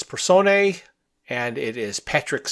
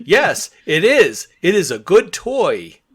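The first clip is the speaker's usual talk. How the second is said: higher, louder, exaggerated swooping delight; eager henchman; 4 semitones higher, 6 dB louder than usual. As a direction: play an over-eager henchman approving the toy. Voicing henchman praising new toy.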